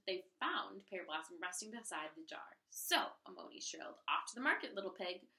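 lively read-aloud storytelling voice; story narration. A narrator's reading. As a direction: read it like a picture book for a class. Reads story to children.

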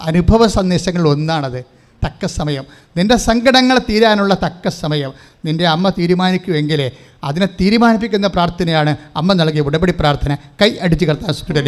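ordinary delivery

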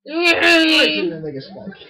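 laughing through the words, loud and high. Real, not acted. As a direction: laugh as you say it. Laughing at partner.

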